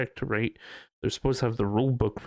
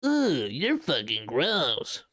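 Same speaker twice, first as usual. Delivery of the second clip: mocking disgust; 2 semitones higher, slower than usual. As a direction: sneer at restraint like a snob. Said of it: "one of those people that's like".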